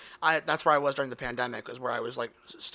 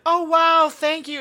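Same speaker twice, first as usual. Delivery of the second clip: mock delighted; 13 semitones higher, 9 dB louder, slower than usual. Mock-delighted reply, high.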